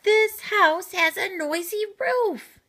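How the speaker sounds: high, loud, cross yell. Acted. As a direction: yell it up at the roof. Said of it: "yelled Owl".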